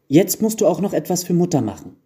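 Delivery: high-pitched pestering plea; whining children. A narrator's reading. Children pestering the carpenter for mother's gift, whining. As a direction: nag him like insistent kids. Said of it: "quengelten die Kinder".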